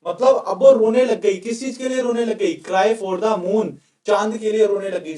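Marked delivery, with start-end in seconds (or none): 2.6-3.7 idiom spelled out very slowly word by word; slow idiom drill. Shown as a demonstration. Teacher drilling the idiom for students, very slow. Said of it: "sir, meaning क्या निकला?".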